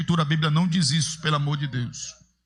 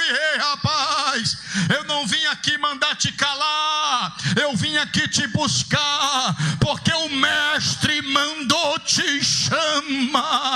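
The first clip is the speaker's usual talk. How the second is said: 1 calling out; 3 semitones higher, slower than usual. Acted. Messenger calls blind man.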